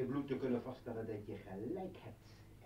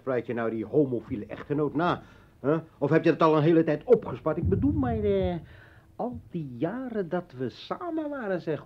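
loud taunt; 4 semitones higher, 10 dB louder than usual. Acted. Hoont haar luid.

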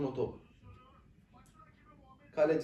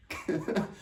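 angry laugh; 4 dB quieter than usual. Real, not acted. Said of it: "sinirden gülüyorum".

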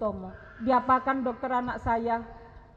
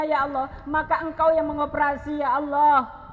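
a lightly raised, pleading prayer voice; retold prayer; 5 semitones higher, 4 dB louder than usual. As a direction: recite the plea to God with some urgency. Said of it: "saya berdoa terakhir". (doa memohon yang agak dinaikkan)

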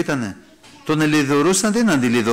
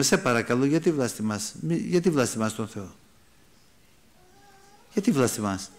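subdued, lower entreaty; gentle pleading; 3 semitones lower, 4 dB quieter than usual. Acted. Preacher acting out pleading with a blasphemer, gentle. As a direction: plead softly with the person, without reproach. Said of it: "και αυτούς παρακαλούμε".

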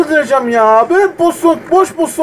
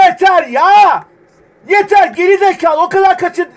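fed up; 5 semitones higher than usual. Real, not acted. Furious after missed chance.

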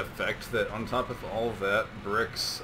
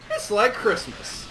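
Roland; 10 semitones higher, 5 dB louder than usual. Retold or imitated. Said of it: "as our character from Borderlands would say, Roland".

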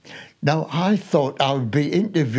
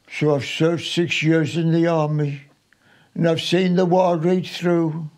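poem in his vernacular. Acted. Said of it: "This is in his vernacular".

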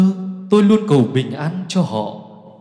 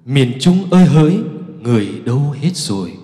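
startled cry; 5 dB louder than usual. Acted. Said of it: "Tôi thảng thốt".

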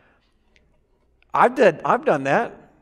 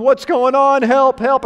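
higher and louder, hammed-up panic; mock panicked bird; 5 semitones higher, 4 dB louder, slower than usual. The dunked bird crying for help, hammed-up panic. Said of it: "wipes his eyes and going".

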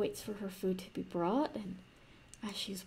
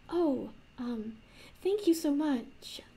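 higher and slower, gushing thanks; princess voice; 5 semitones higher, slower than usual. Acted. Princess thanking the barkeep for the room, higher and slower. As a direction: thank him like a grateful, flustered young princess.

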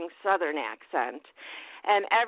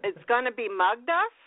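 unsure, questioning go at a Scottish accent; attempted Scottish accent; 3 semitones higher than usual. Shown as a demonstration. Host copies the Scotsman's line on request, shaky Scottish accent. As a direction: mimic a Scottish "Mugduff" without understanding it. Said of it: "give us a little bit of a Scottish accent".

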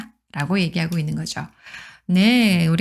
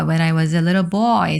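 slow model reading; much slower than usual. Shown as a demonstration.

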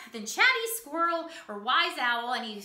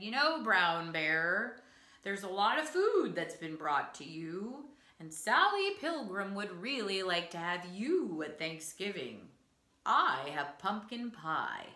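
shy quiet deer; 11 semitones lower, 6 dB quieter than usual. Acted. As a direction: coax the sleeping bear gently and quietly. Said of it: "trotted in very quietly".

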